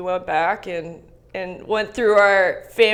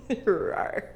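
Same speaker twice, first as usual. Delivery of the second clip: lion roar; 6 dB quieter than usual. Pretend. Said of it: "Can you give me one?".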